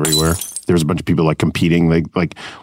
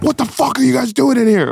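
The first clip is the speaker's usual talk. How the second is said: much higher, hammed-up tough local demanding answers; Jamaican neighborhood dude. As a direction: bark at the film crew like an angry neighbor. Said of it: "a Jamaican dude from the neighborhood would walk in and be like".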